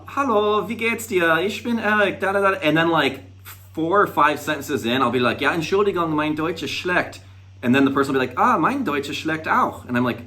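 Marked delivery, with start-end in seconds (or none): 0.1-2.6 much higher, tentative-learner German hello; eager beginner's greeting. Retold or imitated. Acts out greeting someone in German. 5.4-7.2 retold apology. Acts out apologising in German. 8.4-9.8 higher-pitched imitated confession; retold apologetic reply. Acts out stranger's apologetic reply.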